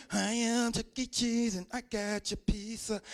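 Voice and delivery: slow, mild cartoon-mascot voice; lightly voiced mascot. Rat mascot bringing pizza to kids, slow cartoon voice. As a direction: announce the pizza like a kids' mascot.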